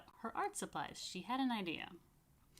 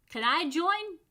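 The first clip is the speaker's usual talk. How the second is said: eager ask; 9 semitones higher, 9 dB louder, slower than usual. A narrator's reading. Boy eagerly asks to join.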